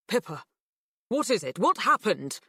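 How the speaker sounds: mildly alarmed dad; a hint of a worried father. A narrator's reading. Dad seeing his upset daughter, mildly alarmed.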